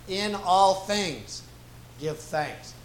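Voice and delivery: "all" stretched slow and weighted, "In all things" drawn out before "give thanks"; stress on all. Shown as a demonstration. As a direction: lean hard into "all", slowly. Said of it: "both really get a little bit more emphasis".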